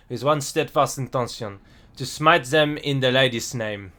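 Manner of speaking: hammed-up bad French accent; terrible French accent. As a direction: read it out in a badly faked French accent. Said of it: "my absolutely terrible French accent".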